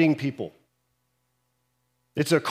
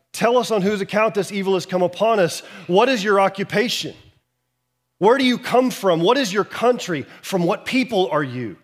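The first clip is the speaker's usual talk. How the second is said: sailors questioning Jonah; 5 semitones higher than usual. Retold or imitated. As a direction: fire questions at him like panicked sailors. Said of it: "they're like".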